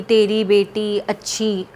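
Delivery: a hint of soothing begging; mock coaxing plea. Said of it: "ऐसे-ऐसे कर, कुछ करके बोल".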